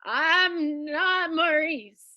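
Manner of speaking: very slow, weighty confession; dramatic reveal. Acted. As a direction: let the reveal land slowly.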